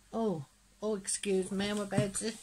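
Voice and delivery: words caught before a sneeze; about to sneeze. Real, not acted. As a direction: hold back a coming sneeze. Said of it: "hence the sneezing".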